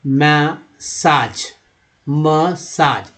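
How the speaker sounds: "मसाज" drawn out in two parts, short म, long साज; pronunciation demo. Shown as a demonstration. Teacher showing learners how it is read, "मसाज" slow and split. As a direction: say "मसाज" slowly, ma then saaj, falling at the end. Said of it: "कैसे पढ़ा जाता है".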